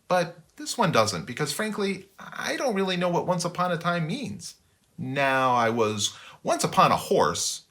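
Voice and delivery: chatty little shrew narrator; quick, fussy storyteller voice. Acted. Narrator shrew character aside.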